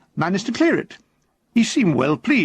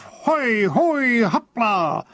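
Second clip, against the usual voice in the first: high, ringing cry of effort; triumphant shout; 4 semitones higher, much slower than usual. A narrator's reading. Athlete mid-jump, letting out a triumphant high cry. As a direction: hurl it out as he leaps. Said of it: "with a triumphant shout of".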